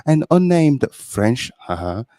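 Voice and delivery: French guest Pierre. Acted. Guest reading the review to the host, in a mock French accent. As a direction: read the magazine blurb as a pompous Frenchman. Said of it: "This is, uh, Pierre".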